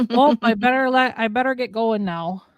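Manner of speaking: mild Minnesota accent on a polite goodbye; a light Midwestern lilt while leaving. Shown as a demonstration. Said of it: "Minnesota accent come through".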